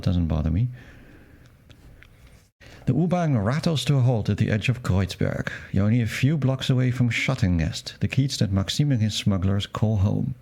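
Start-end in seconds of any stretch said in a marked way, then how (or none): 2.9-10.3 narrating the scene text aloud; game narration. Acted. Player reading the Berlin arrival to viewers, narrator style.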